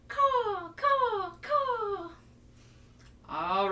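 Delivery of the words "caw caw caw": loud, high cawing crow. Shown as a demonstration. Teacher cawing loudly like a crow. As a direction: caw out like a crow. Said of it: "Can you guys make a crow sound?".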